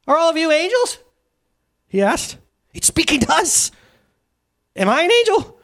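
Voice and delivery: a hint of a dazed man marvelling; lightly voiced wondering thief. The redeemed thief asking the angels, amazed.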